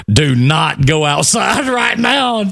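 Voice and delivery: drawn-out warning breaking into a laugh; slow, insistent warning through laughter. Retold or imitated. Acting out laughing warning to mother.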